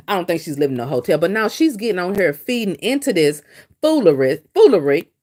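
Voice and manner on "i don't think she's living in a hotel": fast offhand doubt; quick dismissive aside. Retold or imitated. Quick aside to her viewers, brushing off the hotel rumour. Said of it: "I would say something like".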